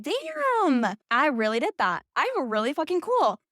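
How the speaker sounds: high-pitched Damn, then bursting with pride; an amazed, proud little cheer to yourself; proud amazement. Retold or imitated. Self-praise after a hard move.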